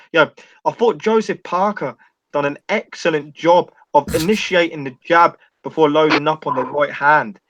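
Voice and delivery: slow impression. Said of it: "He talks, like, very slow".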